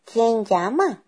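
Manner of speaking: forced high granny voice; wolf posing as granny. Acted. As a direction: fake an old granny calling. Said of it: "forzando la voz como si fuera la abuelita".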